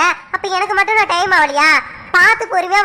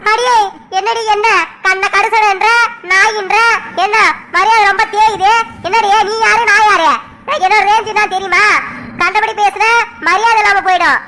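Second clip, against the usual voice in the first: furious comeback. Acted. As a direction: put her in her place, bristling. Woman insulted, fires back.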